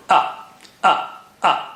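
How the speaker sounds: "a" from the throat, partly breathy; throat "a, a" demo; ayn and hamza drill. Shown as a demonstration. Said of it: "hamza is from the bottom or the edge of the throat".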